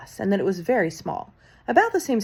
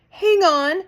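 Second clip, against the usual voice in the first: much higher, loud cry; 12 semitones higher, 8 dB louder than usual. A narrator's reading. Mildred cries out to everybody, high and loud. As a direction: cry out to hold them. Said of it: "cried the witch called Mildred".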